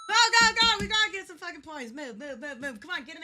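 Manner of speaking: high, urgent, fast; urgent cheering. Real, not acted. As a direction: push them on urgently. Urging on in game.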